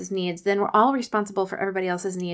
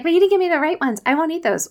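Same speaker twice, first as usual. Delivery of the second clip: put-on high, louder whiny child's protest; whiny kid complaining; 9 semitones higher, 5 dB louder, faster than usual. Child whining to mom about the wrong Cheez-Its, high and loud. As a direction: play a kid griping about snacks. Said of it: "And they're like".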